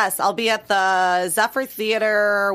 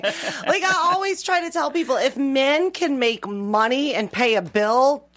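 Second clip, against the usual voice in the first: laughing; 5 semitones higher, slower than usual. Real, not acted. Laughing rant about men.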